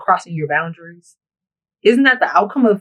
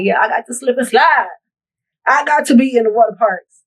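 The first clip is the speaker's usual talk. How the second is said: mocking a bragging guy, a bit higher and louder; mock boasting; 5 semitones higher, 4 dB louder than usual. Mocking her ex bragging about water parks, hammed-up boast. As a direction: puff up like a braggart with his chest out. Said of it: "beating your chest, talk about".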